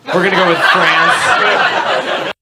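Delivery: drawn-out playful tease; slow teasing. Acted. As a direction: stretch it out, teasing the crowd. Teasing the audience member.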